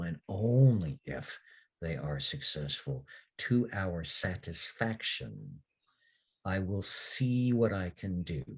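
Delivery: reluctant concession, weighing each word slowly; slow sighing fae giving in; grudging Sluagh. Acted.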